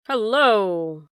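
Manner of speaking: loud call through the inn; Teddy calls out at the sudden silence. Acted. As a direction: call out to the parlor, alarmed. Calling at sudden cry.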